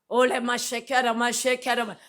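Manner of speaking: rapid tongues prayer syllables; speaking in tongues. Retold or imitated. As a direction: pray in tongues while driving. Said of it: "방언을 하면서". (방언 기도)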